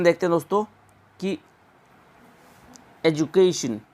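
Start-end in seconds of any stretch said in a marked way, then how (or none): 3.1-3.8 एजुकेशन said in full as "ed-yu-KAY-shun"; careful pronunciation. Shown as a demonstration. Teacher models the word for students, careful pronunciation. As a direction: say एजुकेशन clearly, with a "kay" glide. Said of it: "इसका pronunciation लिख के दिखाता".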